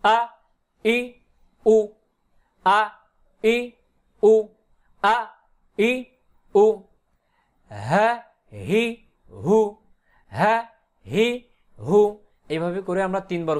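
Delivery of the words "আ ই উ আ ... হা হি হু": short separate syllables like "আ ই উ", with pauses; reading drill. Shown as a demonstration. Teacher shows reading three times over, syllable drill. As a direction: sound out "হা হি হু" one by one, no spelling. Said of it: "শুধু উচ্চারণ করব".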